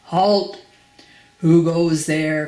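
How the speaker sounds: loud, drawn-out challenge; sentry's cry. Acted. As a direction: challenge the visitor like a guard at the gate. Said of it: "cried the goblin sentry".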